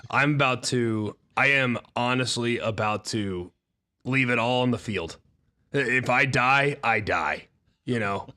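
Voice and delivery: real hoarse voice pushed out; hoarse, losing his voice. Real, not acted. Host explains his voice to his co-hosts, hoarse and straining. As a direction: force the words through a shot voice.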